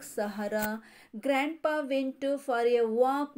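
sing-song nursery rhyme reading; rhyme recitation. Shown as a demonstration. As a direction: recite the rhyme steadily for children. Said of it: "Repeat once again". (ಮಕ್ಕಳಿಗೆ ಪದ್ಯ ಓದುವ ಧಾಟಿ)

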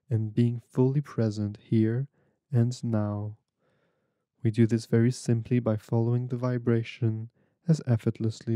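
measured, unhurried meditation guide with long pauses; guided meditation. Real, not acted. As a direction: guide them gently through breathing, phrase by phrase.

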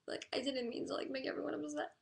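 high, upset voice close to tears; emotional. Real, not acted. Streamer upset that everyone is mad, emotional. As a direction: plead in a high, tearful voice. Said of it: "Why am I so emotional".

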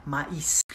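"maïs" with the second vowel, ee, stressed. Shown as a demonstration. Teacher explaining the tréma to learners, emphasis on the I of "maïs". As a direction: lean on the ee in "maïs". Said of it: "we put the emphasis on the I".

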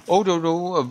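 loud high panicked warning; alarmed shout. Real, not acted. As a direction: yell in alarm as they charge. Enemies rushing in. (vyděšené zvolání)

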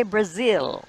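"Brazil" with a clear z and stressed second syllable; "Brazil" said carefully, bruh-ZIL; corrective pronunciation. Shown as a demonstration. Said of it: "the only thing you mispronounced".

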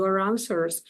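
"your answers" run together as yo-ranswers; teacher demonstrating linking in "your answers"; linked pronunciation. Shown as a demonstration. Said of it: "з'єднати вимовою".

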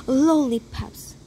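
unvoiced whisper. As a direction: breathe the word. Whispered from the back.

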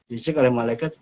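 normal talking voice

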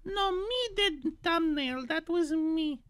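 a put-on cute anime streamer voice; lightly voiced chirpy VTuber. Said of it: "I'm gonna stop with that voice".

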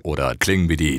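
squeaky sped-up chipmunk voice; very high pitch. Shown as a demonstration. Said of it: "damit könnt ihr einfach eure Stimme hoch oder runter pitchen".

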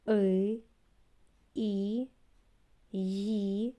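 put-on each letter called out, with pauses for the children; reciting the alphabet. Shown as a demonstration. Teacher to children, naming the alphabet aloud for them to repeat. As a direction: lead the class through the letters. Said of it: "Давайте разом їх назвемо".

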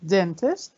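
"dentist" as DEN-tist, questioning; stress on first syllable. Shown as a demonstration. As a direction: punch DEN in "dentist" and end on a rise. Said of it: "أي مقطع فيهم أنا صوتي بيبقى قوي".

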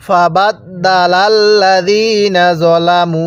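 slow, drawn-out Quranic recitation. Shown as a demonstration. Teacher recites slowly for students to copy. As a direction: recite each syllable slowly for the learners. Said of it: "কিভাবে পড়ব?".

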